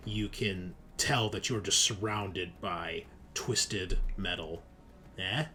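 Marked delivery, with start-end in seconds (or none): 5.2-5.5 pun nudge. Real, not acted. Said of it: "See what I did there?".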